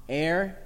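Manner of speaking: "Air" said to rhyme with hair, as a question; common mispronunciation. Shown as a demonstration. Teacher echoing the class's guess at E R R, common mispronunciation. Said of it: "Words that are often mispronounced".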